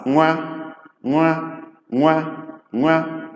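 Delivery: "nwa" on a high held tone; NW pronounced "nwa". Shown as a demonstration. Igbo teacher demonstrating NW, "nwa" sound. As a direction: glide NW into one syllable, "nwa". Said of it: "pronounced as Nga".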